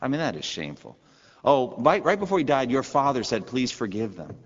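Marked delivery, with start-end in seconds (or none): 1.4-4.4 sarcastic mock quote. Mocking the brothers' invented deathbed message.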